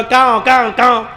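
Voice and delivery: mock caw of a trapped crow. Preacher imitates the crying crow, mock cawing. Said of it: "तो कौवा भी रो रहा था".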